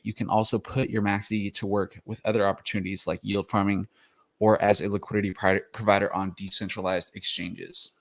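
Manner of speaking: slightly winded from the gym; breathing hard between words. Real, not acted. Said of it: "I'm, like, out of breath right now".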